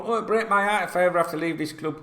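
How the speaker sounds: a fake-sad player; mock heartbroken player. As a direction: overplay the sad goodbye. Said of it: "Wijnaldum's another one".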